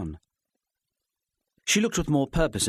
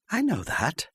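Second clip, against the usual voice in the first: calm; 11 semitones higher, slower than usual. A narrator's reading. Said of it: "She spoke calmly".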